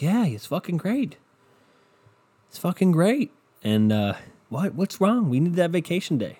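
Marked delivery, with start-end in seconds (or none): 0.0-3.3 high, hammed-up fake cheer; sarcastic mock enthusiasm. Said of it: "So we all are like". 4.5-6.4 high, hammed-up fake protest; sarcastic mock outrage. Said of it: "So we all are like".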